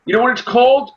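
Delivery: high, playful setup of a pun; corny joke voice. Retold or imitated. Dad teasing his kids with a pun, high and goofy. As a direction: tease the kids with a goofy lilt. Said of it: "I'm very corny when it comes to things".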